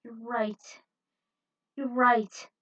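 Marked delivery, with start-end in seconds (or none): 0.0-0.8 whisper. Acted. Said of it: "calmed down as she swallowed".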